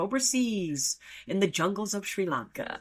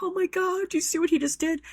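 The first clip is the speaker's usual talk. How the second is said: retold upset; 12 semitones higher, faster than usual. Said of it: "I'm like".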